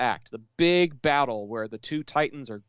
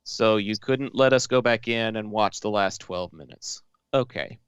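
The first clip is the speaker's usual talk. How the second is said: sarcastic; 3 semitones lower than usual. Retold or imitated. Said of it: "And we were like".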